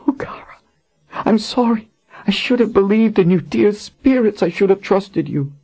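high, remorseful queen; sorry and pleading, pitched high; Colin. Acted. Colin voiced in the story.

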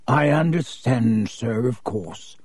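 bowing and scraping; fawning shopkeeper. Acted. Borgin voiced by narrator.

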